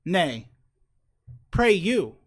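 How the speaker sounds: loud, grandiose mock-god voice; booming demon lord. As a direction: boom it out like a pompous pizza god. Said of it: "so I just did, like, a, a bit".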